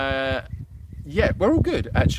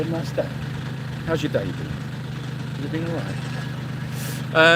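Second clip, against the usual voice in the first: breathy whisper, very slow; soft whisper; 4 dB quieter, slower than usual. Real, not acted. Whispering slowly to Baz about his day. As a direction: hush it gently to a shy animal. Softly asking Baz the animal.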